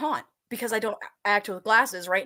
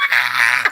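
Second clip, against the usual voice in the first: startled yelp; 11 semitones lower, 7 dB louder than usual. Retold or imitated. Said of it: "even remotely like".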